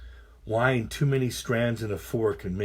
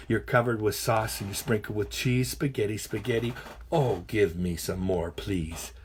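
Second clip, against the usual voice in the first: poem recital. Acted. Reader to a room of kids, lively poem recital. Reads a spaghetti poem aloud.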